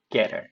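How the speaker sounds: 'get her' run together, t tapped like r; flapped t. Shown as a demonstration. Teacher applying the flap rule, 'get her' with tapped t. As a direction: link 'get her' as ge-rer. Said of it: "모음 사이에 트가 들어가니까".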